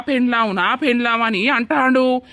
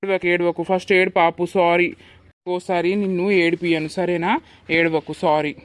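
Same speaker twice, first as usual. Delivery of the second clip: tender apology; 3 semitones lower than usual. Acted. Husband apologizes, soothes wife.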